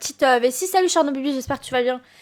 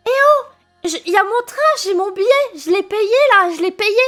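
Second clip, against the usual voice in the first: raised calling voice, pleading; calling out to staff; 4 semitones higher than usual. Retold or imitated. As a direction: shout across to the train staff. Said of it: "je leur dis".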